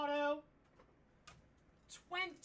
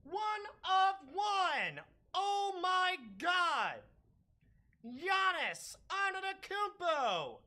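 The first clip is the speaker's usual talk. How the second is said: excited; 3 semitones higher than usual. Real, not acted. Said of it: "I'm screaming, dude".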